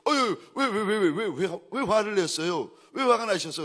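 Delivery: high, rapid string of startled whys; flustered questioning. Retold or imitated. Pastor answering an angry church worker, flustered.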